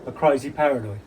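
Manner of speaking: scornful, agitated outburst; worked-up rant. Acted. Agitated rant about the other man.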